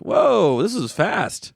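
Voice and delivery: startled high "whoa"; surprised. Retold or imitated. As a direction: react like it's suddenly too fast. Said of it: "I'm like".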